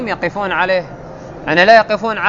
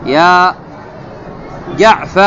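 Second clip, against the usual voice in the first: calling out the vocative; much slower than usual. Shown as a demonstration. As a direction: call it out like summoning Jaafar. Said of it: "من يعرب يا جعف؟".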